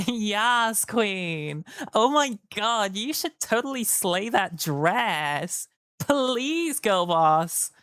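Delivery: hammed-up ditzy girl, slowed and gushing; girly voice. Playing one of the girlies, ditzy and gushing. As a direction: gush like a valley girl. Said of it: "I can be one of the girlies".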